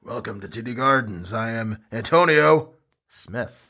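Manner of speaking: slow, drawn-out ring announcer; fighting game announcer. Pretend. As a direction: stretch out the welcome like a ring announcer. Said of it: "I really have to put on my announcer voice".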